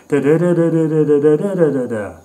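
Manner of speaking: loud mocking run of rhythmic syllables, falling away at the end; slam poetry cadence. Critic showing the cadence stuck in your head, mocking. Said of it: "is that stupid cadence just stuck in your head?".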